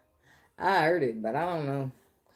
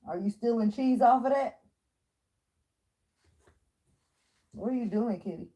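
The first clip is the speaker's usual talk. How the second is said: much higher, teasing accusation; playful pet-scolding; mock-surprised at the cat; 10 semitones higher than usual. Real, not acted. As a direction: catch the cat in the act. Catching the cat.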